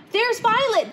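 high, loud joyful cry; jubilant shout. A narrator's reading. A boy in the crowd spots Violet, jubilant shout. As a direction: cheer her name out. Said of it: "the boy shouted jubilantly".

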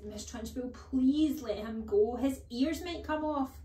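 a hint of a frightened teacher begging; pleading cry. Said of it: "Miss Honey cried".

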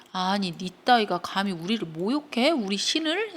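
mild mock outrage, rising at the end; indignant anger. Goddess furious that a mortal insults gods, mildly indignant. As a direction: act affronted, restrained then rising in pitch. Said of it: "엄청나게 화가 났다는 소리야".

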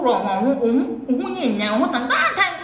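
giggling as she calls her ugly, pitch jumping up; laughing mockery. Real, not acted. Laughing at a rival while mocking her looks.

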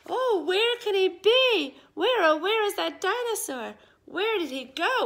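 playful fake search call; mock searching. Kids pretend to search loudly.

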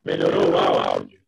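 glitchy robotic call audio; half robot voice. Real, not acted. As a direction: voice breaking up like a robot. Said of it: "ainda tá com voz de robô".

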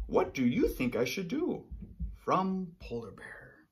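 write it like a lonely bear; Polar Bear voice. Acted. Polar Bear's lonely letter.

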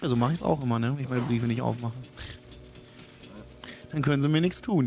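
ordinary talk

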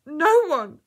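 high, loud wail; anguished cry. A narrator's reading. Girl in labour answering the woman, despairing cry. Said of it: "cried the girl".

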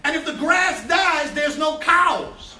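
preaching at full force. Acted. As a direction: drive each point home to the congregation. Preaching builds to shouts.

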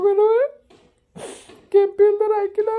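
high, loud cry of protest; outburst. Acted. Heated family quarrel. (ಎತ್ತರದ ಕೂಗು)

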